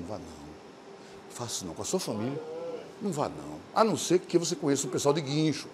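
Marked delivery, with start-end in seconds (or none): 0.0-3.6 quiet, low warning to himself; hushed inner thought. Retold or imitated. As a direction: say it under your breath as a private thought. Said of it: "eu pensando".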